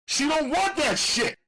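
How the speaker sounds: high, loud angry shout. Acted. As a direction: shove her off with your voice. Bullet snaps at the mother.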